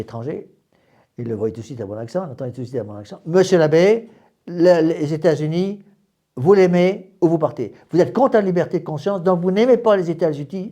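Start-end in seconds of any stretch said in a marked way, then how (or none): 3.2-10.7 louder, higher mock challenge; imitated American objectors. Americans standing up to challenge the foreign priest, imitated indignation. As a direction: lightly act out an indignant heckler. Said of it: "se levaient et me disaient".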